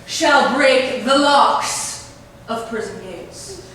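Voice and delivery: slow, booming hammy verse; ranting tyrant. Acted. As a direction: declaim like a raging tyrant. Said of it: "This is not me".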